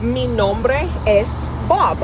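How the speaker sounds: slow, spaced-out "Mi nombre es Bob"; teacher's model phrase. Shown as a demonstration. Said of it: "You say".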